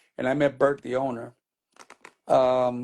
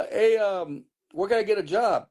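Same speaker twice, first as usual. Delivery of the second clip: casual ask; 6 semitones higher than usual. Retold or imitated. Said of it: "Just like that".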